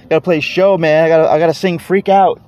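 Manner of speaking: laughing while talking. Real, not acted. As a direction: chuckle through the words. Laughing at his own excuse.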